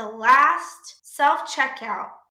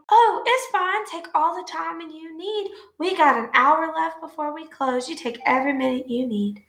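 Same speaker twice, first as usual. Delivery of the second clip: higher, sugary fake politeness; fake sweet; 4 semitones higher than usual. Cashier answering the rude customer with fake sweetness. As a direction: kill him with kindness. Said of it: "I'm like".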